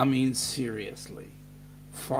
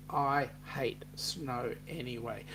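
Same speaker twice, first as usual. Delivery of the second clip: breathy unvoiced whisper, much softer; whispered aside; 3 semitones lower, 6 dB quieter than usual. Real, not acted. Host whispers a snow grudge to viewers, hushed whisper. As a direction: slip in a secret grumble under the breath.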